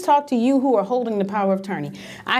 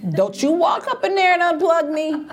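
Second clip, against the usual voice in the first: high pleading, stretching out the last words; mock pleading; 6 semitones higher than usual. Speaker voicing herself on the ventilator, begging for time. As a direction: beg for a little more time, half laughing.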